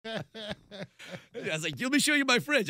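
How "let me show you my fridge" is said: high, loud mock house-tour voice; show-off host. Billboard dweller showing reporter his cooler, mock show-off. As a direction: announce it with put-on pride.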